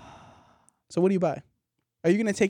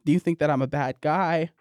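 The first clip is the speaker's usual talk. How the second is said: low, deep, needy Santa; a lightly voiced, insecure Santa; Santa Claus voice; 6 semitones lower than usual. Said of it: "Good voice".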